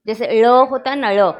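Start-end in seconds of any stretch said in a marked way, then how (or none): 0.4-0.5 ळ with the tongue curled back, as a retroflex L; Marathi retroflex ळ. Shown as a demonstration. Teacher showing class a special Marathi sound, retroflex ळ. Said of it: "Marathi में देखो कुछ शब्द होते हैं". 1.1-1.3 ळ with the tongue curled back, as a retroflex L; Marathi retroflex ळ. Shown as a demonstration. Teacher showing class a special Marathi sound, retroflex ळ. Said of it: "उनको वो बोलना ही नहीं आता".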